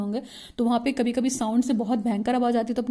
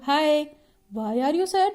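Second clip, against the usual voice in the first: high-pitched "हाय, why are you sad"; wrongly cheery; 3 semitones higher, much slower than usual. Shown as a demonstration. Teacher showing the wrong tone for sadness, too high. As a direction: chirp it high, ignoring the sad mood. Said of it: "sad का environment होता है तो बोलते हो".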